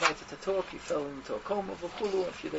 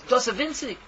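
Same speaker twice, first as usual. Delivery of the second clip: loud, raised-pitch outburst; roaring rebuke; 6 semitones higher, 7 dB louder than usual. Retold or imitated. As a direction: throw it at him in a roar. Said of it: "with his roaring voice".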